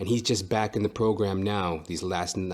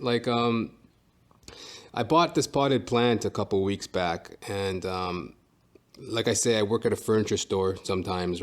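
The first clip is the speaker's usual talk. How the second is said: usual speaking voice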